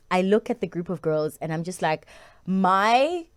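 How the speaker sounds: ordinary delivery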